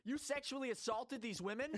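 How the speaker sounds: high, loud incredulous accusation; shocked question on the edge of laughter; mock outrage. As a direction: play the scandalized flight attendant. Plays shocked accusing airline assistant.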